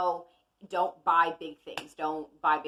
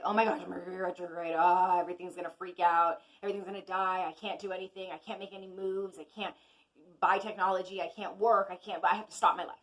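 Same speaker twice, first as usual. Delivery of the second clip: mock panicked complaining. Imitating people who fear retrograde, mock panicked fretting. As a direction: mimic the worried crowd's lightly hammed-up fussing. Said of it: "a lot of times we say".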